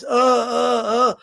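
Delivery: a slurred, dazed stammer like a fighter taking too many punches; mild mock of a battered boxer's speech; punch-drunk fighter. Shown as a demonstration. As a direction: mumble like a worn-out, hurt boxer. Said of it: "they end up talking like this".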